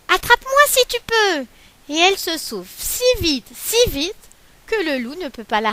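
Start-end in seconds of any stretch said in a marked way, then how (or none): 0.1-1.5 higher and louder dare; cheeky taunt. Acted. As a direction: tease the wolf. Galette taunts wolf.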